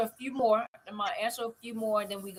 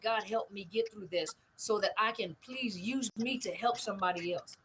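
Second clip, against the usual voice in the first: retold prayer; 4 dB quieter than usual. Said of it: "the one thing that I pray".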